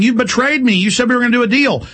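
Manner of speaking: hammed-up rising panic, rushing the words; mock panic. Hitler accusing his allies of betrayal, in mock high panic. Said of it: "Hitler starts panicking, going".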